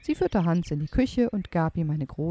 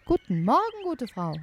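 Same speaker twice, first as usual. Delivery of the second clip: put-on mild polite boy voice; 8 semitones higher than usual. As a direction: ask politely, a little shy. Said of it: "so höflich er kann".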